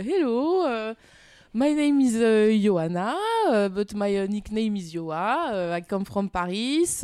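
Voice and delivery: swooping up on hello, easing down after; climbing English voice. Shown as a demonstration. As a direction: perform a self-conscious introduction in English. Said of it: "voix qui monte de trois octaves au-dessus".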